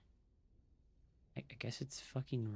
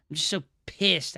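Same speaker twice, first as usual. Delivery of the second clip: louder, with a hard hit on pissed; angry outburst; 4 semitones higher, 8 dB louder than usual. Real, not acted. Streamer blowing up after the same line said calmly. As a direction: let the anger burst out on the repeat.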